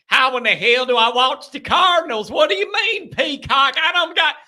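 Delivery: high, hammed-up Kentucky hick accent; hick Louisville fan. Host mocking a Louisville fan who can't find the game, in a hillbilly accent. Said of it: "I could just see 'em".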